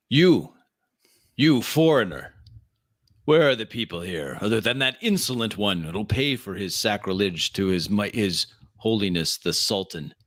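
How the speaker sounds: scornful desert chieftain; hostile guard. Acted. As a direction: challenge the stranger. GM voices hostile man.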